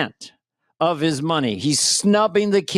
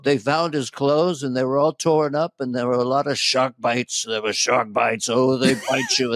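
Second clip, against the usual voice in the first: lightly imitated president, lower than usual; Trump; 4 semitones lower than usual. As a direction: do a light impression, pitched down. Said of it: "this is the exact quote".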